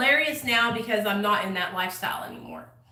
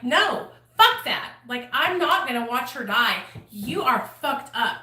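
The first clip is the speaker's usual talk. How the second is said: angry refusal. Retold or imitated. Refuses to let her die.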